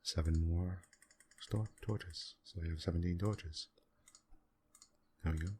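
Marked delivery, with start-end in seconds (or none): 2.4-5.5 talking through hiccups; hiccupping between words. Real, not acted. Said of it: "Excuse me, I have the hiccups".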